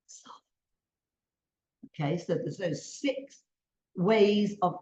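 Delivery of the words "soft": barely audible, whispered word; soft. Shown as a demonstration. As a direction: drop right down to almost nothing.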